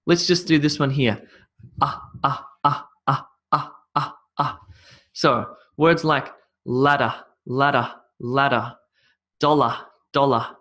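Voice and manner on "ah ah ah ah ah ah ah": "ah" as a very short, unstressed vowel; short vowel sound. Shown as a demonstration. Teacher models an odd vowel for learners, short separate "ah". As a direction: cut each "ah" off at once. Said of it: "almost like a short vowel sound".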